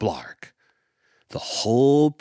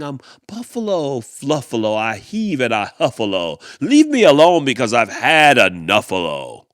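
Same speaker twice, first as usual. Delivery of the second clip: a hint of the grumpy buffalo, barely louder; imitating mean person; 7 dB louder than usual. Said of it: "Can you hear them saying".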